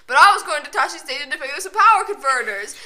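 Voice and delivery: whiny Luke quote. Retold or imitated. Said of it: "I'm talking about the line".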